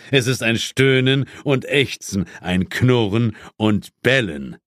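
lightly voiced stern boss, a touch of stiff superiority; a hint of a British chief putting his agent in his place; Sir James. Chief rebuffs his inspector on Christmas Eve, lightly stern.

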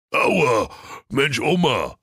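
a hint of a yelping devil; whining devil. A narrator's reading. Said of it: "rief der Teufel".

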